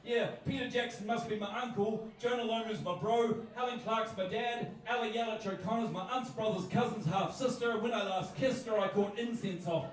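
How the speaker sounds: punchy rhythmic listing; comic slam poem. Acted. Poet resumes after losing his place, punchy comic recitation. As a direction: rattle off the Kiwi clichés in verse rhythm.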